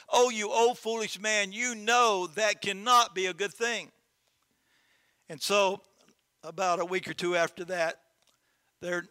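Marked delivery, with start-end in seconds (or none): 0.1-3.9 higher, louder scornful neighbors; scoffing neighbors. Acted. Neighbors scoffing at the farmer about his son, higher and louder. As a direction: scoff at the old man.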